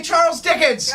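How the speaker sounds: hype-man call to the audience; call-and-response shout. Real, not acted. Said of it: "repeat after me".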